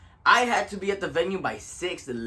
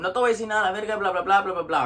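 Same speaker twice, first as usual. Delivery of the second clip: lightly acted irritated comeback; pissed off; 3 semitones higher, much faster than usual. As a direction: rattle off the cussing, tapering into filler. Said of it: "I was pissed off already".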